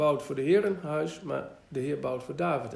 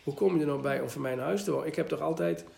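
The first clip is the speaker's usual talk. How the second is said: mildly mocking; faster than usual. Preacher voicing God mildly mocking David's plan, light scoff. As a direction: gently poke fun at the idea. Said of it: "Hij zegt het een beetje spottend van".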